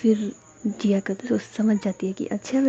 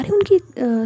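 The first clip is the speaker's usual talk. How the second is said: eager mom; 9 semitones higher, 7 dB louder, slower than usual. Acted. Mom eagerly pitching a girl.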